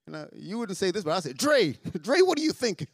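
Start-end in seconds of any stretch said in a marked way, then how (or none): 1.3-2.9 laughing mock rebuke, pitch jumping up; self-scolding. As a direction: chide yourself by name, amused. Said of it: "you talk to yourself".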